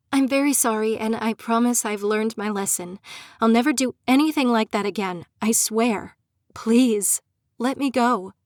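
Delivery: desperate plea to her captor; begging. Acted. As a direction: beg him, words tumbling out. Prisoner begging captor for release.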